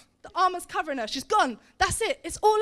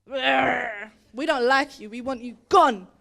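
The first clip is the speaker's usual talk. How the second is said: scowling hostility; 3 semitones lower, 3 dB louder, slower than usual. Acted. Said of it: "All scowl that way".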